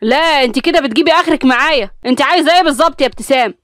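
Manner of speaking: annoyed husband losing patience; irritated, losing his temper. Acted. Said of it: "بصلها بنرفزة وقال".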